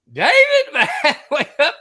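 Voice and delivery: high, loud holler of a name; imitated long-distance shout; calling up. Ski instructor hailing him way up the lift, calling out.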